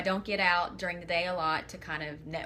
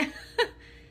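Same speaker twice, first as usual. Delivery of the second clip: high, short laugh through tears; tearful laugh. Real, not acted. Embarrassed at crying on her live video, tearful laugh. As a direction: laugh at yourself while crying. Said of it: "I don't know why I'm crying".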